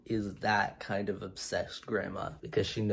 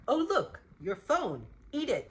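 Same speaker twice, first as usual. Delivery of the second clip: put-on high, squeaky baby voice; delighted baby voice, pitched high; 12 semitones higher than usual. Voicing a baby.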